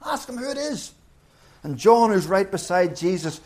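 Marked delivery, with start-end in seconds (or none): 0.0-0.9 hushed, urgent aside; 1 urgent whisper. Retold or imitated. Peter nudging John across the table, whispering. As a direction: whisper it behind his back. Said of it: "He says".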